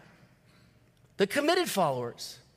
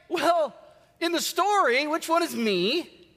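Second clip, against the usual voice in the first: higher, puzzled questions from the crowd; confused crowd; 5 semitones higher than usual. Acted. The listening crowd asking Jesus, higher and puzzled. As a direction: sound lost, trying to work it out. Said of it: "everybody listening is confused".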